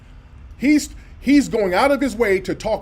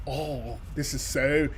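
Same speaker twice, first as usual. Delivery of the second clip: Scooter the Shooter; 4 semitones lower, 8 dB quieter, slower than usual. Retold or imitated. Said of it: "he sound like Scooter the Shooter".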